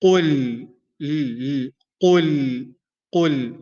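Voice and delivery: heavy qaf, light lam in قل; Arabic qul. Shown as a demonstration. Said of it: "qaf is heavy and lam is light".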